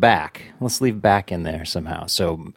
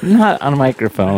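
talking with donut in mouth; chewing while speaking; mouth full; 3 semitones higher, 3 dB louder than usual. Real, not acted. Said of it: "I'm eating a donut right now".

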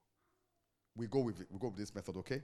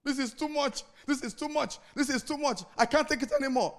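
mock lament; 8 semitones higher, 6 dB louder than usual. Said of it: "standing in front of me and crying".

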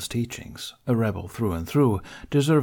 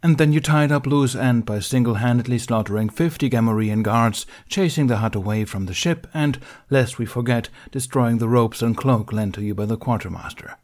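frustration; 4 dB louder than usual. Acted. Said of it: "His businesslike tone was slipping in frustration".

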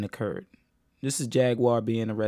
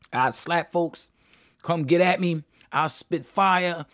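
slow, higher mock bravado; mock tough talk; 4 semitones higher, slower than usual. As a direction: drag out the tough boasts in a mocking voice. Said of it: "That's how she was talking".

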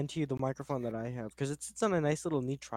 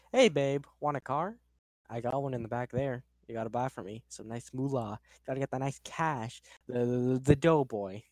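salesman voice. Shown as a demonstration. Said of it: "he says it in a more".

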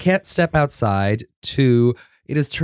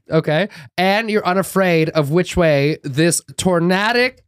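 dramatic lecture; 6 semitones higher than usual. Retold or imitated. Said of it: "I was like".

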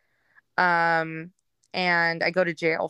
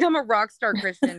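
amused self-quote; 3 semitones higher than usual. Retold or imitated. Woman recalls what she used to say all the time, laughing. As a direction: laugh breaking into the words. Laughs at own old catchphrase.

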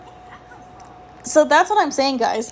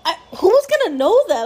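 higher, exasperated damn it; half-mock frustrated cry; retold frustration; 5 semitones higher than usual. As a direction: replay the annoyed disbelief, pitched up. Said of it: "and I was like".

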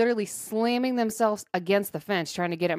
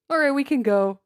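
brisk; 6 semitones higher, 5 dB louder than usual. Retold or imitated. Ushering dog out.

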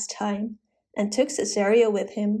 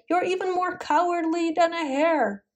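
yelled insult; 7 semitones higher than usual. A narrator's reading. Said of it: "while she was being yelled at".

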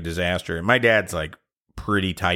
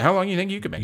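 high teasing question; 11 semitones higher, much faster than usual. Real, not acted. Asks co-host, teasing challenge.

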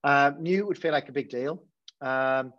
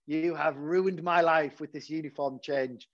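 mock aggrieved parent; slower than usual. Angry parent quoted in story.

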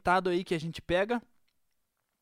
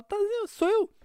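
insisting voice; 11 semitones higher, 3 dB louder than usual. Retold or imitated. The man claiming to be God.

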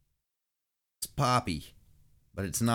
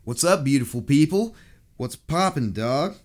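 hyped greeting; 6 semitones higher, 7 dB louder than usual. Acted.

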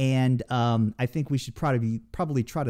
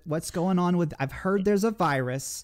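put-on New York old lady accent; 3 semitones higher than usual. Friends ask for the New York old lady accent, lightly done. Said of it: "you have to do it in the accent".

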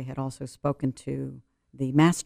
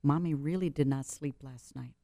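put-on soft to her child; 4 dB quieter than usual. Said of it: "I say".

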